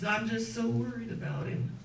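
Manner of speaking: lightly acted tearful worry; mildly tearful. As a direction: imitate a mother fretting on the edge of tears. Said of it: "crying a little bit".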